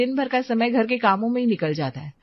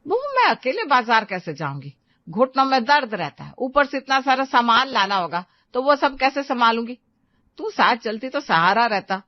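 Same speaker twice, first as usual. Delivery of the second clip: put-on older woman, higher, plaintive; pleading mother-in-law; 3 semitones higher than usual. Mother-in-law pleads with daughter-in-law not to go alone, plaintive. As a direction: she asks for help, a little hurt.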